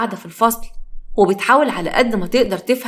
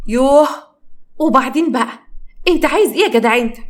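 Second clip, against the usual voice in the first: annoyed rebuff; 5 semitones higher than usual. Acted. سهى تصد عصام.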